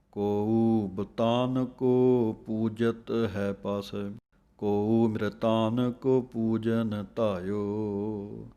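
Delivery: very slow, word-by-word recital; slow scripture recitation. Shown as a demonstration. Teacher reciting the verse for students, very slow. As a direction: read the verse deliberately. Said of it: "ਬੁਤਾਨ ਪਾਠ ਜਿਹੜਾ ਹੈ, ਕੱਸ ਕੇ ਬੋਲਣਾ ਹੈ".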